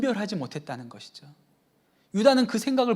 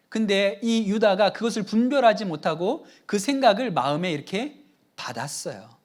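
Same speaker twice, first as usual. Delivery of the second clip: usual speaking voice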